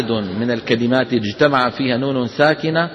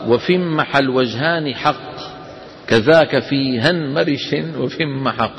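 slow, measured chanting of the poem; verse recitation; slower than usual. Acted. Teacher reciting the poem line to the class, slow chant. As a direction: recite the verse slowly and evenly.

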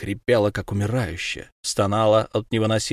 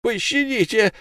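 desperate plea. Acted. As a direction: plead with nothing left. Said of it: "отвечал рыбник".

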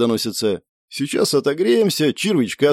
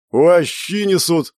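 slow, raised cry of anticipation; eager delight; 4 semitones higher, slower than usual. A narrator's reading. Alex sees the food being brought, eagerly delighted. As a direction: relish the food's arrival. Food and vodka finally arriving.

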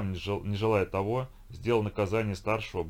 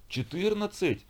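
put-on older brother howls at his punishment; wailing howl; 11 semitones higher, slower than usual. A narrator's reading. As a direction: wail «Четырнадцать?» up high in outrage. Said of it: "взвыл старший".

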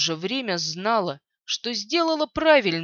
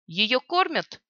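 dry; 2 semitones higher, slower than usual. Acted. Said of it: "сухо спросила Оспа".

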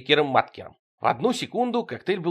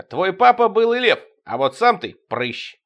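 jeering taunt; 6 semitones higher, 5 dB louder than usual. Acted. Alien insult exchange, jeering.

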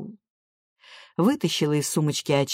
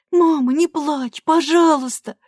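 higher, slow plea; pleading; 10 semitones higher, 5 dB louder, slower than usual. A narrator's reading. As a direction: beg her to stop crying. Daughter pleads with crying mother.

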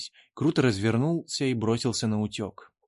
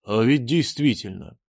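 exclaiming; 4 dB louder than usual. A narrator's reading. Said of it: "вскрикнул Чан".

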